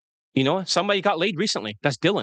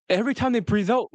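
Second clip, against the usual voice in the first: poverty sigh; 6 semitones higher than usual. Shown as a demonstration. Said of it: "they breathe out at the end".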